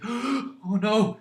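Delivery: guard recognizing the villain, amused; mock dismay. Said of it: "he's like".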